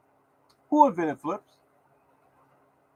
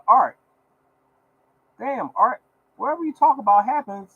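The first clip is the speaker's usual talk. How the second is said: higher, excited imitation of a caller; 7 semitones higher than usual. Fan on the phone telling Art his picks come true, mock excited. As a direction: play the fan shouting Art's name. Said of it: "called me on the phone and said".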